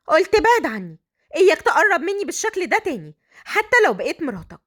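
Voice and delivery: put-on defiant young wife; indignant bride. Bride warns groom to back off.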